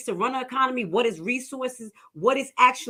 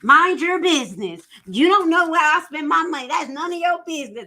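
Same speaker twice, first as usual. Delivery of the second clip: 1 mind your business; 8 semitones higher, 5 dB louder than usual. Real, not acted. Playfully telling off the listener.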